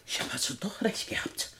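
hushed, stunned whisper; shocked whisper. Acted. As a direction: whisper it in shock as the stranger appears. Intruder appears, she gasps. (erschrockenes Flüstern)

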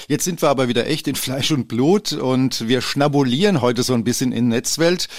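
talking while chewing cookies; mouth full. Real, not acted. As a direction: speak through a mouthful. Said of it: "Mit vollem Munde reden".

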